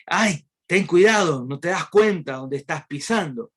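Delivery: the tiny ant's yelp of pain. Acted. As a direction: yelp at him as if your foot was stepped on. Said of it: "pegó un grito demasiado fuerte".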